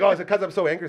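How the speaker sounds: hopeful question. Retold or imitated. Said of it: "I was like".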